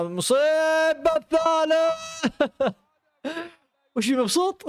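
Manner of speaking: high, slow, laughing drawn-out words; stretched high laughing lines; laughing in disbelief. Real, not acted. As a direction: laugh through the disaster. Laughs at third goal.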